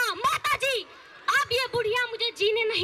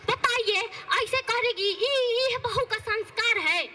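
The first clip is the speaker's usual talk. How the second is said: a touch of a complaining saas; lightly voiced gossiping mother-in-law. Mother-in-law gossiping to her friends about daughter-in-law, complaining.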